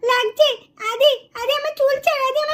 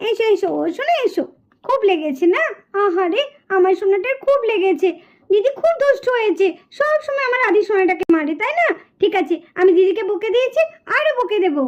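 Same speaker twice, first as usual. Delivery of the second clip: comforting mother; 4 semitones lower than usual. Acted. Mother comforts crying son.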